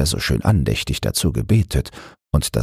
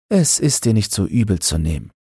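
higher woman's voice, excusing mildly; apologetic; 6 semitones higher than usual. Acted. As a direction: Annemarie smoothing it over, a touch apologetic. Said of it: "sagte entschuldigend Annemarie". (Annemarie, höhere Stimme, entschuldigend)

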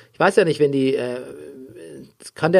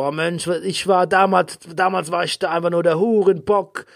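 lightly voiced nostalgic Jaime; imitating Jaime; 5 semitones higher than usual. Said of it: "so labern".

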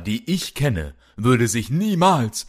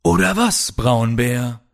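high, sneering taunt; taunting villain; 5 semitones higher than usual. Acted. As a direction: sneer down at the captive. Villain taunts chained hero.

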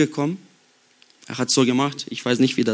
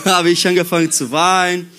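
laughing through the words, a little louder; amused retelling of crying; laughing while telling; 4 semitones higher, 5 dB louder than usual. Real, not acted. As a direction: chuckle out the admission of tears. Laughing at his own crying story.

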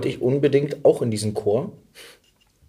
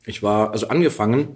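talking with a mouth full of fries; chewing while speaking, mouth full. Real, not acted. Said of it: "mit vollem Mund am Reden".

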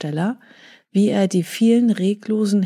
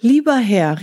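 calling out; 3 semitones higher, 5 dB louder than usual. Acted. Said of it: "rief da der Vogel selber".

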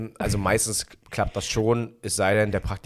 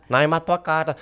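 higher, firmer father voice; imitating dad; 7 semitones higher, slower than usual. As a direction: snap it like a strict dad. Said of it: "mein Vater".

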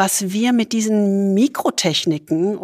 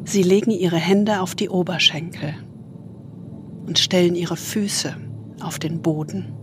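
soothing spa whisper; 4 dB quieter than usual. Acted. Leads a body scan meditation.

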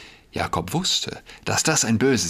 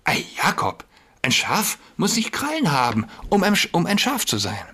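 lightly voiced sly wolf playing innocent; a hint of a wolf faking sweetness; 7 semitones higher than usual. A narrator's reading. Wolf disguised as a sheep soothes Jakob, lightly sly. Wolf posing as Frau Schaf.

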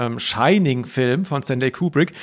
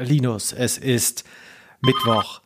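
mock announcer; 3 semitones lower than usual. Shown as a demonstration. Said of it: "Also ich könnte jetzt zum Beispiel sagen".

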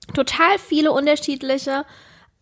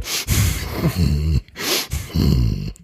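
mock chewing smack noises; imitating loud eating sounds. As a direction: noisily imitate someone stuffing their mouth. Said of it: "dass sich dann so anhört".

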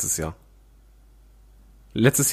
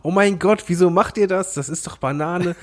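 high, exasperated outburst; mock outrage; 6 semitones higher than usual. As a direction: throw up your hands in disbelief. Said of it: "Ich werde sagen".

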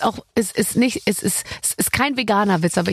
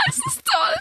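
high laughter. Real, not acted. Laughing at S1's joke title.

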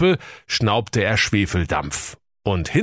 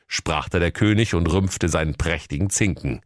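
high, officious cop voice; nosy policeman, pitched up; police commissioner voice; 10 semitones higher than usual. Acted. (hohe, wichtigtuerische Kommissarstimme)

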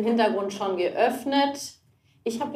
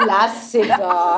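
laughing; 3 semitones lower, much slower than usual. Real, not acted. Laughing slow repeat.

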